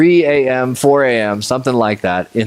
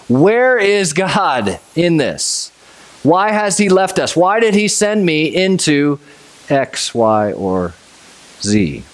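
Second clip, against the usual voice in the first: higher, slow, worried questioning; anxious pleading; 7 semitones higher, slower than usual. Retold or imitated. A believer in a trial asking God, anxious and pleading. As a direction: plead like someone lost in a storm. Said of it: "like the disciples were".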